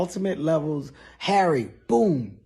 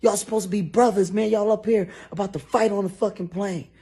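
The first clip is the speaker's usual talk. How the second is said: higher and louder, fast lecture; scolding snap; 7 semitones higher, 5 dB louder, faster than usual. Retold or imitated. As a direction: tell brothers off. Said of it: "Harry snapping".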